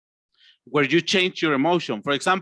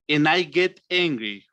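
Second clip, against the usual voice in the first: mildly stern, falling statement; understated acted anger; angry; 2 semitones lower than usual. Shown as a demonstration. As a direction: let the cheer drop into displeasure. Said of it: "to angry".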